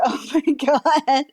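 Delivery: breathy laugh, hushed; laughing whisper. Real, not acted.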